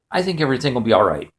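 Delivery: low, quick, understated reassurance; lightly voiced soothing father, pitch dropped; reassuring dad. Dad soothes son after nightmare.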